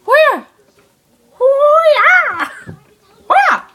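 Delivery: very high, loud yelps; Jacob Soros. Acted. Boy imitates a YouTuber, high loud yelps. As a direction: squeal it out as short bursts. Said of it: "I'm doing his impression".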